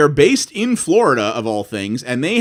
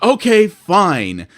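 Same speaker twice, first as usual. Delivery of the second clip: resigned; 2 semitones higher, 5 dB louder, much slower than usual. Retold or imitated. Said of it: "I'm like".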